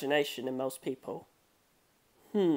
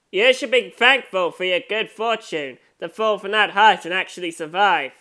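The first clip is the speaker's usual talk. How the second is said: a louder, taunting killer's voice from above; menacing villain; 5 dB louder than usual. Acted. Killer taunting Akari from the roof, louder gloating. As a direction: gloat down at the fallen girl.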